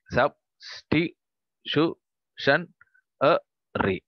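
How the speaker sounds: drawn out syllable by syllable, very slowly; teacher spelling out Heterogeneous slowly for the class; slow syllabified. Shown as a demonstration. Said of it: "we are going to syllabify the following words".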